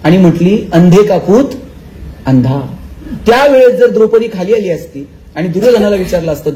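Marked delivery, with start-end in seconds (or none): 0.7-2.8 lower, laughing taunt; mocking laugh. A narrator's reading. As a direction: jeer with a laugh as Draupadi. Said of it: "Draupadi हसली". (हसत टोमणा मारणारी द्रौपदी)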